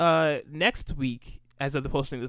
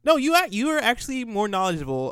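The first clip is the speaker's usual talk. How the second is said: high, loud protest; hasty denial; 9 semitones higher, 5 dB louder than usual. Real, not acted. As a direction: jump in loudly to deny it. Hastily denies co-host's suggestion.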